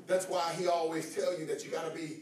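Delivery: low, soft, intimate Bible reading; quiet teaching voice. Acted. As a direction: draw them in close and low.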